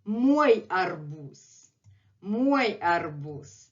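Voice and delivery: Мой арбуз said very slowly; slow demo. Shown as a demonstration. Teacher modelling Мой арбуз for students, slowly. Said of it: "Let's say it again".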